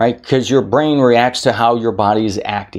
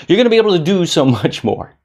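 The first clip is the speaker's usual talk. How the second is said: higher, faster, with a laugh; laughing retake; 7 semitones higher, faster than usual. Shown as a demonstration. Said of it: "is this backwards".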